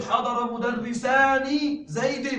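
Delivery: slow example, wrong مدرسان stressed; slow model of the wrong form; wrong form shown. Shown as a demonstration. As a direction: say مدرسان with its nun as the mistake to avoid. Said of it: "لا تقل".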